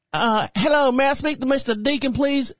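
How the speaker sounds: put-on polite caller from the doctor's office, in a country girl voice. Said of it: "sounds like a black country girl".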